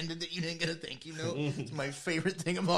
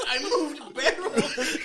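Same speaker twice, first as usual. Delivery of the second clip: mocking gruff voice; 11 semitones higher, 10 dB louder, much slower than usual. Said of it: "You just were like".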